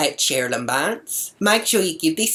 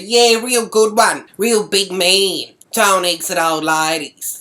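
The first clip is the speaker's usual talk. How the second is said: slow, louder mock praise; sarcastic scolding; 4 semitones higher, 6 dB louder than usual. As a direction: jeer at them, stretching the words. Sarcastically scolds the egg throwers.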